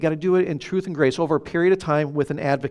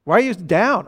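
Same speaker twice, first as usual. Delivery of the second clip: higher-pitched retold wifely challenge; questioning wife; 4 semitones higher, 4 dB louder than usual. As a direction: imitate a wife pressing for answers. Replaying wife's questioning in a quarrel.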